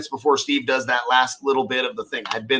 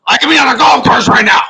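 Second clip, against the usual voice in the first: louder, higher whiny worker gripe; mock tired worker; 4 semitones higher, 7 dB louder than usual. Mocking a worker fed up with wiring trucks, whiny. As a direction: whine like a fed-up tradesman.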